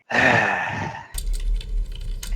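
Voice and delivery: long weary breathy sigh; audible sigh. Acted. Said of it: "she sighs audibly".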